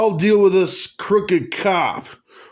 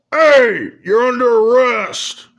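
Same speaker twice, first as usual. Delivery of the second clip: chirpy clicking dolphin; 4 semitones higher, 4 dB louder than usual. Acted. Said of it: "what should the dolphin's voice be?".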